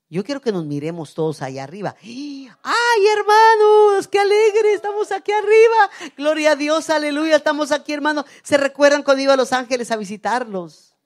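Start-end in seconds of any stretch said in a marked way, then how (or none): 2.0-10.9 high, loud squeal of delight easing into happy calling; overjoyed greeting. Acted. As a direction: shriek with joy as if reunited in heaven. Acts out joyful reunion in heaven. (exclamación eufórica, aguda y a gritos)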